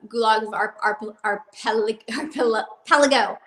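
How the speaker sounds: talking around a retainer; stumbling over words with a retainer in; wearing a retainer. Real, not acted. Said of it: "Cannot talk with this retainer in my mouth".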